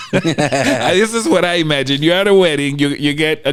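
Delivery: laughing. Real, not acted. Laughing while speaking.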